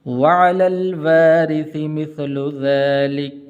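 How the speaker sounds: slow, melodic chanted recitation; measured tajweed chanting with long held vowels; Quran recitation. Acted. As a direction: recite the verses in a drawn-out chant. Quran recitation before the lesson.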